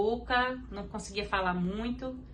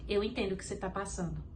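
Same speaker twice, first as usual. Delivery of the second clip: softer, calm and reassuring; gentle divine voice; 3 semitones lower, 5 dB quieter than usual. Retold or imitated. The Holy Spirit comforting her in the car, softly reassuring. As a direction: speak as a comforting, tender presence. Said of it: "o Espírito Santo falou comigo assim".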